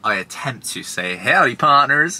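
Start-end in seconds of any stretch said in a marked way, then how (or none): 1.2-2.2 slow, lightly Southern "Howdy, partners"; a quick Southern cowboy demo; husband showing the joke, in a Southern accent. Shown as a demonstration. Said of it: "in, like, quite a Southern accent".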